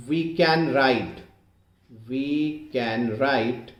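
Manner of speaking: very slow, drawn-out dictation. Shown as a demonstration. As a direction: spell out the equation word by word for note-takers. Dictates the equation while writing it. (धीरे-धीरे, एक-एक शब्द लिखवाते हुए)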